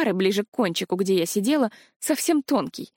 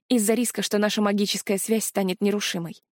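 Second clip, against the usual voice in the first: ordinary delivery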